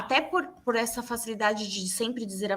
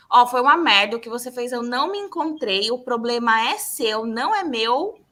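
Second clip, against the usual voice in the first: imitando cliente grosso, mais alto no começo; cliente irritado; 4 dB louder than usual. Retold or imitated. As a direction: reclame como um cliente, ríspido mas contido. Imita cliente irritado jogando a culpa. (imitação leve de cliente irritado)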